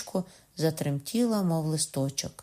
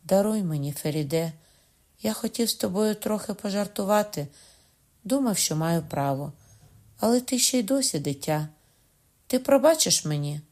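abashed, sad; 3 semitones higher than usual. Acted. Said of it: "обізвався знічено і журно".

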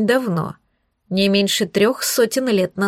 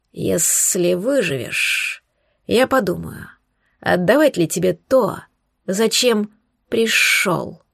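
slow snake voice; slower than usual. Acted. Serpent guardian sets terms.

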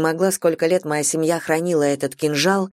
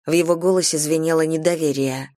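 ordinary delivery

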